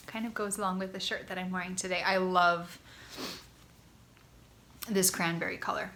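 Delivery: slightly congested, stuffy voice; blocked nose. Real, not acted. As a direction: talk through a blocked nose. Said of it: "little bit congested".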